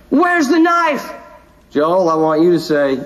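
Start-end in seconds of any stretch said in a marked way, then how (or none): 0.1-1.1 slow, deliberate cue; slow drawn-out line. Shown as a demonstration. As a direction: draw each word out slowly. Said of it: "I'm gonna say".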